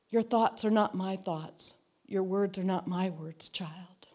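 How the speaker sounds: put-on softening until child is whispered; fading to a whisper. God's words coming to her mind, fading into a whisper. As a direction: let the voice sink to a whisper.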